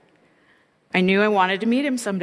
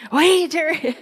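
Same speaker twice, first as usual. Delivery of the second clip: mock Ted greeting, much higher and louder; imitating shy Ted; 11 semitones higher, 7 dB louder, slower than usual. Ted comes by her office, high hammed-up timid greeting. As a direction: play a timid man calling her name, pitched way up.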